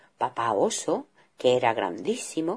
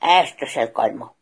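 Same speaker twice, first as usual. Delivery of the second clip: mock angry shout; 4 semitones lower, 6 dB louder than usual. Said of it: "gritaba papá oso".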